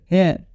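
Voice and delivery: "हेयर" with the final R fully sounded; American clear R. Shown as a demonstration. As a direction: let the American R ring out at the end of "हेयर". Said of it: "clear आर का pronunciation करते हैं". ("हेयर" का आख़िरी आर अमेरिकी ढंग से पूरा बोलें)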